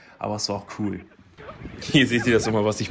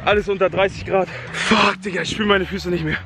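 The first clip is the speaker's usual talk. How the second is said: hyped and freezing; 8 semitones higher than usual. Real, not acted. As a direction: shout it, buzzing from the cold. Freezing after icy sea swim.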